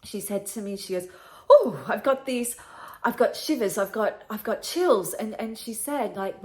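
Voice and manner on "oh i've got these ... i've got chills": startled grandmother. Retold or imitated. Grandmother telling granddaughter of sudden shivers, mildly startled. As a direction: act out a sudden chill, a touch louder.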